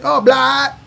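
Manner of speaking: high, eager mistaken guess; a hint of a puzzled listener guessing; confused local. Local mishearing his name, high and eager. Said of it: "I'm like".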